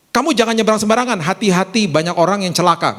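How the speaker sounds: quick, milder demonstrated caution; wiser parental warning. Shown as a demonstration. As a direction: caution a child without cursing them. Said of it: "Beda kan langsung".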